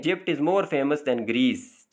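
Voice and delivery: very slow, word by word dictation of the English example; slow example reading. Shown as a demonstration. Teacher dictates the example sentence slowly to students. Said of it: "अब यहाँ देखें".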